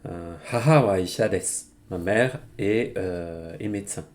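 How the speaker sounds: normal talking voice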